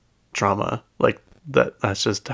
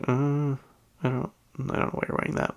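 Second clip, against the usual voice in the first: whisper; 4 semitones higher, 9 dB quieter than usual. Pretend. Mocking someone's outfit.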